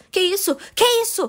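high, rising amazement at understanding the song; astonished. Retold or imitated. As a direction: retell the shock of suddenly understanding it. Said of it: "e eu disse".

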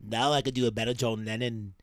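lightly nasal Liverpudlian impression; impression of a singer. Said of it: "It's a lot more in the nose".

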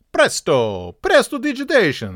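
"Presto", then a high, loud "prestidigitation"; conjurer's flourish. Pretend. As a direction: announce it like a stage magic trick. Magician's flourish built on presto.

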